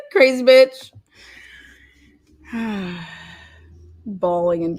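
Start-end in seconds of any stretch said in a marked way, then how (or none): 0.1-0.9 louder, slow, laughing it out; laughing repeat. Real, not acted. Calling out the ex-friend, laughing slowly. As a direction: crack up saying it again.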